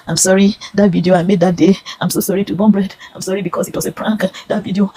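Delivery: imitation of a forced public apology; mock apology. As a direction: plead forgiveness as in a staged apology. Imagined forced apology video.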